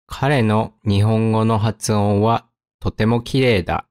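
measured, pausing between phrases. Shown as a demonstration. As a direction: read it carefully for learners. Example read slowly, then at speed.

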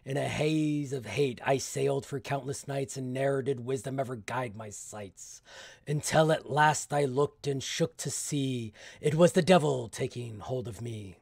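measured dramatic verse reading; poem recitation. Acted. Solo player reads the opening verse of the sea tale, poem recitation. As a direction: recite a dark sea rhyme.

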